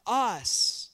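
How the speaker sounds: very slow, drawn out for the crowd to join; slow call and response. Real, not acted. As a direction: stretch each word so all can say it. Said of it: "say with me".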